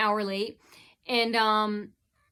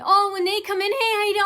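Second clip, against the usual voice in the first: higher, louder sugary fake hello; mock cheery greeting; 10 semitones higher, 5 dB louder, faster than usual. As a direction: put on a bright, fake welcome. Mocking fake staff greeting.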